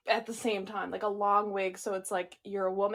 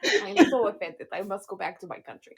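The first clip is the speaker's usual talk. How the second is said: put-on Russian accent; faster than usual. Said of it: "in the Russian accent".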